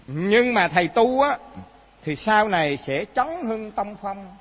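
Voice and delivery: slow, emphatic reading aloud; recited sacred biography. A narrator's reading. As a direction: read it out deliberately, phrase by phrase.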